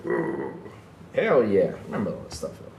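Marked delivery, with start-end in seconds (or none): 0.1-0.5 low He-Man grunt; beefed-up grunt. Retold or imitated. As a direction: grunt like a muscleman, much lower. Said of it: "He was like".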